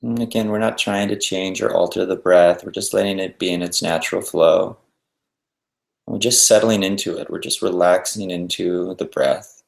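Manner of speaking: unhurried meditation guidance with long pauses; guided meditation. Acted. Teacher guiding listeners to settle and breathe, guided meditation. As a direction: ease them into stillness, leaving space between instructions.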